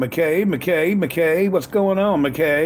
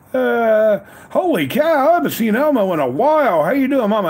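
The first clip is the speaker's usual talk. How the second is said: happy surprise; 5 semitones higher than usual. Real, not acted. Spotting Elmo in the chat after a while, pleasantly surprised.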